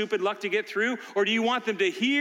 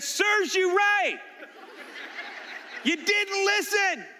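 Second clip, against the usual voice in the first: laughing; slower than usual. Retold or imitated. Grandpa teasing stuck grandson.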